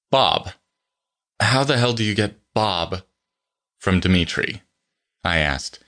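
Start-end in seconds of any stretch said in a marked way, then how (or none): none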